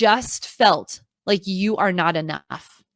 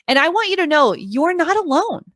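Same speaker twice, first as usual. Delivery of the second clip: ordinary talk, nothing marked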